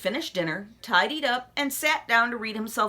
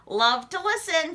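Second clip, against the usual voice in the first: cried out; 7 semitones higher than usual. A narrator's reading. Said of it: "Froggy cried".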